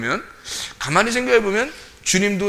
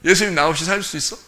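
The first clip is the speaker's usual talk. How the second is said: more assertive, direct question; confident. Acted. Believer boldly challenging Jesus, confident. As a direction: ask it squarely, without shrinking. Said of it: "그 정도 당당하지도 못해?".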